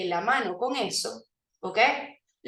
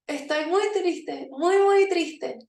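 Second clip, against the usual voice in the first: mock sad, smiling; 5 semitones higher, slower than usual. Shown as a demonstration. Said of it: "Y van a decir".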